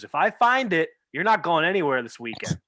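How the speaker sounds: retold parental scolding; scolding father. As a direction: lay down a threat as a fed-up dad. Father scolding son in retold story.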